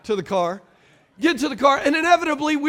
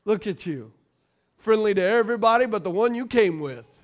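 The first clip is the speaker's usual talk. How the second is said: accusing inner voice; 3 semitones lower than usual. Retold or imitated. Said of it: "the chatter would start".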